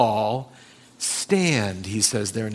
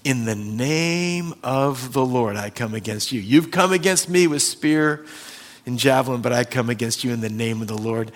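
David's defiance. Retold or imitated.

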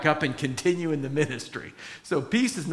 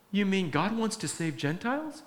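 higher, puzzled question; surprised Peter; 5 semitones higher than usual. Retold or imitated. Peter to the household, realizing God saves Gentiles, surprised. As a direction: ask it as if it just dawned on you. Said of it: "And Peter goes".

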